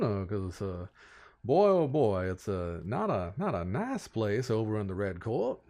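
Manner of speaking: lightly voiced folksy Southern gentleman, taken aback; hesitant Southern caution; wary Southern lord president. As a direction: warn them off, stumbling and incredulous. Samuel warns the travellers.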